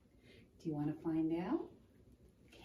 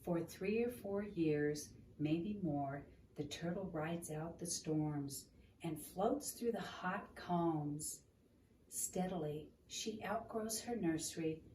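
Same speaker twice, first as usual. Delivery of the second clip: gentle read-aloud storytelling; story narration. Acted. Reading picture book aloud.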